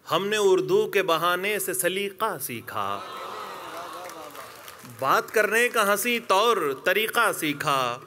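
measured mushaira recital with drawn-out phrase endings; poetry recitation. Acted. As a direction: recite the couplet line by line to an audience. Recites couplet to mushaira audience.

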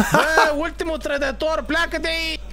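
half-laughing, chase him off; mock shout. Boto laughingly ordering Luca out of his place, mock shout.

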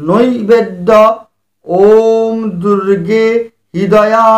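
measured, chanted Sanskrit offering formula; lightly chanted puja mantra; mantra recitation. Acted. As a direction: intone each offering like a priest.

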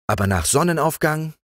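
the patient green frog; calm green frog. Acted.

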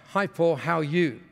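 lightly imitated Japanese accent; a hint of a Japanese speaker's English; Masami's Japanese-accented English. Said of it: "when they speak like that".

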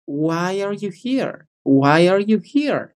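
"Why are you here?" slow and continuous, no breaks; linked question. Shown as a demonstration. Teacher gives the tip to everyone, slow linked question. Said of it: "que no se corte".

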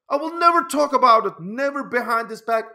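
real heated insistence on never; emphatic vow. Real, not acted. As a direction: swear it with real force. Vowing loyalty, emphatic.

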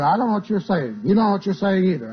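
imitated indignant denial; mock protest. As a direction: argue back like an annoyed demon. Imitates demon protesting at tongues.

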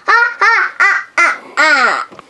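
gloating cackle, ha ha ha; evil laugh. Acted. Elsa cackling at Jack Frost as her trap springs. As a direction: cackle like a villain who won.

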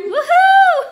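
loud high whoop with a laugh; excited whoop. Real, not acted. Thrilled about the new team member, loud laughing whoop. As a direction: let out a joyful whoop.

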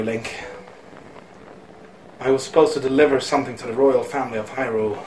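hushed, solemn storyteller, mildly acted; voice-acted game character. Villager speaking to Link of dusk and sadness, lightly voice-acted. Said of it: "I'm gonna do voice acting".

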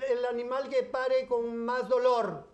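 the neighbour posing her riddle; the neighbour asking. Retold or imitated. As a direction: pose the riddle slowly as the neighbour. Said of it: "Y me dice".

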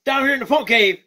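excitable puppet bird greeting the fans; Skeeter the bird puppet. Acted. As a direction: play a cheeky funk-loving bird puppet.

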